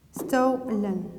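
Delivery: STOLEN split into two drawn-out syllables; syllable-by-syllable dictation. Shown as a demonstration. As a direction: dictate STOLEN with a gap after STO. Repeats word slowly for writing.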